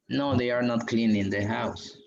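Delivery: slow, careful model answer for the class. Shown as a demonstration. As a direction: read it out slowly like a teacher.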